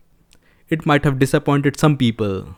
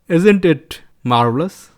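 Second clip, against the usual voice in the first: slow, lilting Indian accent, rising at the end; mock Indian accent; 3 semitones higher, slower than usual. Shown as a demonstration. Poking fun at accents, slow lilting mock Indian accent. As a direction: stretch "marvelous" upward in a mock Indian accent.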